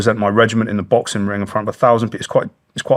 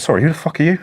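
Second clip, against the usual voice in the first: sharp, higher and louder comeback; retold angry retort; 7 semitones higher, 4 dB louder, faster than usual. To the woman who mocked him, an affronted retort. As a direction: fire the question back at her, affronted.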